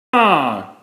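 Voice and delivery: short, hammed-up startled "Ah!"; a child's-story scream, not too scary; light acted cry of fright; mock scream. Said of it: "screamed Franklin".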